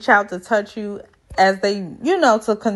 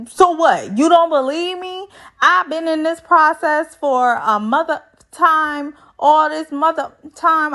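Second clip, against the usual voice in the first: indignant, defensive; 6 semitones higher than usual. Retold or imitated. Zach defends himself heatedly.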